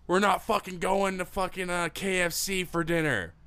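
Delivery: loud, high bratty yell; screaming tantrum. Retold or imitated. Spoiled child refusing KFC for dinner, screaming tantrum. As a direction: act out a spoiled kid yelling at Mom. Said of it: "screaming, screaming, screaming, like".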